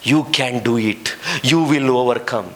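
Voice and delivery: very slow, drawn-out guru mantra; slow mock-inspirational English; mock motivational guru. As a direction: parody a soothing self-help speaker. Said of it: "ಗುರುಗಳೆಲ್ಲ ಏನ್ ಹೇಳ್ತಾರೆ ಗೊತ್ತಾ?".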